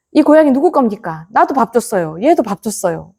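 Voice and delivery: monks complaining. Retold or imitated. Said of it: "막 이런단 말이에요".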